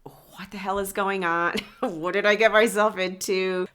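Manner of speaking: hushed, half-whispered disbelief; mock stunned mutter under the breath; bewildered aside. Date wondering what he walked into, hushed bewilderment. Voicing the bewildered date's thoughts.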